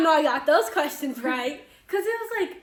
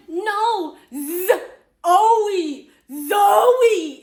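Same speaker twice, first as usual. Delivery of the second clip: loud, high teary wail of the name; mock wailing shout; 5 semitones higher, 10 dB louder, much slower than usual. Classmate corrects her name, mock teary wail. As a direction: ham up the girl's frustrated cry. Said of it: "then she's like".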